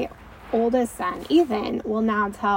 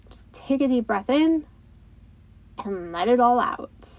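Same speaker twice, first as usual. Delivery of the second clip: calm breathing cue; 2 semitones higher than usual. Shown as a demonstration. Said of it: "power of their breath".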